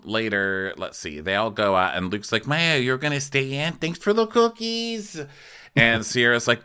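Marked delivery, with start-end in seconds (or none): 2.5-5.2 hammed-up sarcastic thanks; mock sarcastic cheer. Mocking Luke leaving Maya home.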